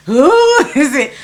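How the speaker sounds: mock clueless who's-there call; imitating playing dumb. Imitating the man answering her knock, playing dumb. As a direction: feign innocence, stretching the first word. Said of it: "acting stupid".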